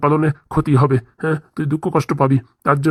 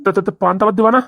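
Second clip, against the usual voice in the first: higher, stuttering request for food; stammered plea; 4 semitones higher than usual. Acted. Hungry husband asks wife for rice, stammering plea. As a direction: stumble on the first word, then plead.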